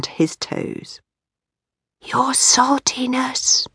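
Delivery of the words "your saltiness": slow whisper, higher up. A narrator's reading. Hiccup greets old Wrinkly politely, whispering. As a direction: breathe it respectfully, no voice. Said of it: "he whispered".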